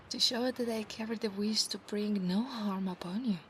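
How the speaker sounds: hushed whisper. Acted. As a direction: whisper the promise close to his ear. Whispered roleplay.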